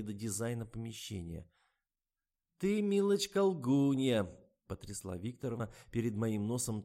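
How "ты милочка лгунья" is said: high, loud scolding; accusing old woman. A narrator's reading. Old woman accuses the writer, waving a magazine, high and loud. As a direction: shake a finger at her.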